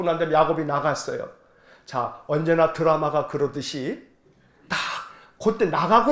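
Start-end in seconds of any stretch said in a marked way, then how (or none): none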